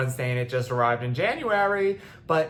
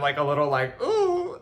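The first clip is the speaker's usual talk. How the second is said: tearful; 2 semitones higher, 3 dB louder than usual. Real, not acted. Tearful wobble mid sentence.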